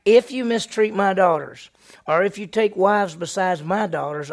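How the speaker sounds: stern warning. Acted. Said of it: "'cause he says".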